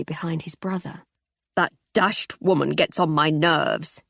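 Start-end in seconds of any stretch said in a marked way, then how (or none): 1.6-4.0 slow, grumbling gentleman; grumbling older man. Acted. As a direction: grouse like a stuffy husband. Voiced Percy Seddon.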